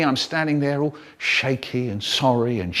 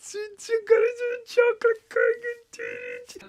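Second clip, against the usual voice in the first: brother's voice; 6 dB quieter than usual. Acted. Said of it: "And my brother said".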